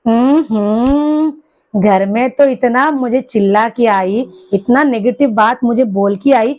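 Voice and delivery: slow grumbling husband, lightly voiced; imitated grumbling husband. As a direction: drag out the hums like a sulking husband. (पति की धीमी बड़बड़ाहट की हल्की नकल)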